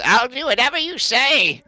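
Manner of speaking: high squeaky creature voice, meek; kobold agreeing. Acted. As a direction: give in to her like a little lizard. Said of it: "Temerity, and says".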